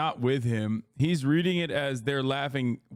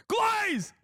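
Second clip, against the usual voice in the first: very high, drawn-out squeal of contempt; high-pitched jeer. Real, not acted. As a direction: cry it out far above your usual pitch. Calling out the hosts' flattery.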